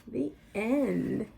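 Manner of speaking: lively picture-book read-aloud with suspense pauses; animated children's story narration with dramatic pauses before each number. A narrator's reading. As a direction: read it like story time for little kids.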